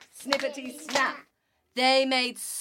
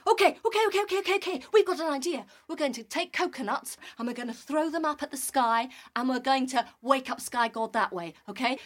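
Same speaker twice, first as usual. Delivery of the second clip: chattery monkey voice; much faster than usual. Acted. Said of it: "the monkeys said".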